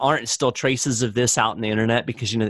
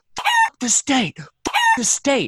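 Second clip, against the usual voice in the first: mock very high, swooping, top-of-lungs shouting. Retelling what a man beside them in a car yelled, retelling a top-of-lungs yell. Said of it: "almost yelling at the top of his lungs".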